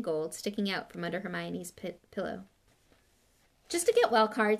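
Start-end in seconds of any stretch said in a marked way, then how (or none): 3.7-4.6 hasty. Acted. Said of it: "said Hermione hastily".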